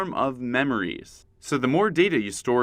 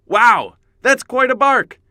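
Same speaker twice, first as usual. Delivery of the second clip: mock amazement; 10 semitones higher, 9 dB louder, slower than usual.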